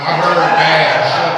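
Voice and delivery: slow, loud, drawn-out punchline. Real, not acted. Comic telling the crowd, slow and loud. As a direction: belt the punchline out slowly. Punchline after grandma confronts him.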